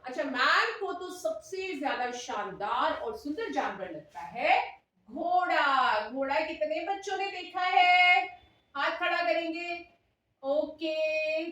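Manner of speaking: drawn-out, sing-song classroom questioning; demo primary teacher. Pretend. Teacher asking children who has seen a horse, drawn-out classroom voice. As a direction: stretch the key words for little children.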